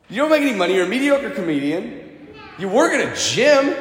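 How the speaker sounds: high-pitched mock accusation; acted-out scornful disbelief; challenging. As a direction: reel off the insults incredulously. Gym woman repeats her insults.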